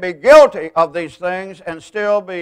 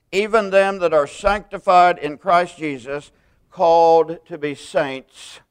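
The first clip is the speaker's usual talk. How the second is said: a louder, measured reading of scripture; 4 dB louder than usual. Acted. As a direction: read the greeting out like a letter. Reading the epistle's opening aloud.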